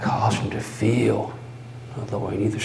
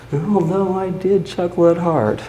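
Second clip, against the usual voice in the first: gleeful; 8 semitones higher, 4 dB louder, faster than usual. Acted. Gleeful mad narrator.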